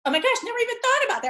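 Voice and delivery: high, fast rush of discovery; excited realization. Retold or imitated. Analyst realizing the new pattern, fast and high with excitement. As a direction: blurt it out as the penny drops.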